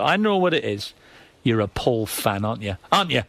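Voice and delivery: mocking Geordie impression of a woman. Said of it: "that Geordie voice of it".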